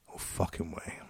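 low, whispered under breath; whispered reply. Retold or imitated. Soldier whispering his answer under his breath, low. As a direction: mutter it so nobody hears.

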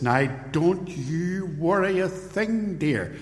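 mildly loud retold reassurance, pitched high and slow; imitating loud Englishman. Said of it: "He had this loud English accent".

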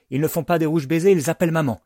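high, loud declaration; crowing tattletale, high and loud; Ashley proclaiming. A narrator's reading. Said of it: "clame Ashley".

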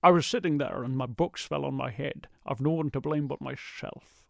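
Sean Connery impression. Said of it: "Sean Connery comes up quite a lot".

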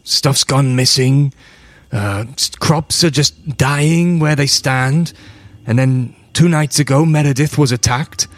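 worried father growing urgent; desperate farmer. Acted. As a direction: build from weary to insistent. Farmer recounts the attacks.

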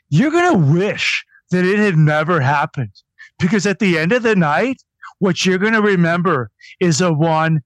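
mock promo voice. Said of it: "wrestlers have this promo voice".

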